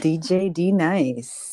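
slow radio DJ announcement. Acted. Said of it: "you sounded like a D J just now".

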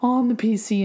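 high laughing panic; mock panic. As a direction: play the scared kid calling mom. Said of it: "I'm like".

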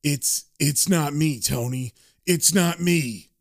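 slow, halting, dazed delivery; lightly acted dazed murderer; entranced gunman. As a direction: speak slowly as if in a trance. Entranced Carter speaks before shooting his friend.

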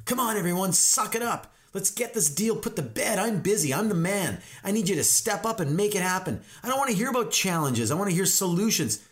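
high-pitched, pushy self-important agent; rally the troops like a frustrated big shot; impatient hotshot boss. Acted. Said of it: "This was me".

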